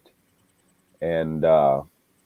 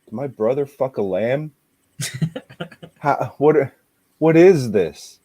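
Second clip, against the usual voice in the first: higher, rising alarm; shocked disbelief; 6 semitones higher than usual. Retold or imitated. Brother wondering about the lamb, shocked. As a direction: stammer in shock. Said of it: "he thinks".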